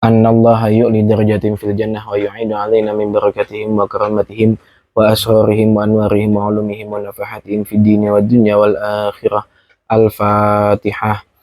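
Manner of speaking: level, formulaic prayer recitation; Arabic prayer. Acted. Preacher dedicating Al-Fatihah to the departed, prayer recitation. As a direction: recite the dedication in an even tone, drawing out the last word.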